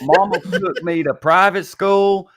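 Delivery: Southern accent. Shown as a demonstration. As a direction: let the Georgia accent come out on purpose. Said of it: "to not sound like this right here".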